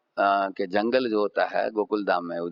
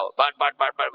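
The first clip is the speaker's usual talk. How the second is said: quick spoken whacks; imitated stick blows; 3 semitones higher than usual. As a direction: mimic repeated thwacks of a stick. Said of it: "मारा".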